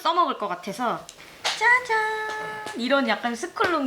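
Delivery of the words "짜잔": drawn-out ta-da. Real, not acted. Unboxing reveal.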